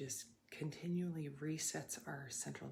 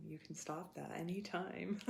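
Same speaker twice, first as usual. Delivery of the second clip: says it through a laugh; amused, laughing it out; 3 semitones higher than usual. Real, not acted. Repeats phrase while laughing.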